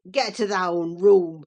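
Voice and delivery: low, furious growl; voice thick with passion. Acted. Earnshaw orders Linton to his room, furious and low. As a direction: spit it out barely able to form words. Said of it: "in a voice almost inarticulate with passion".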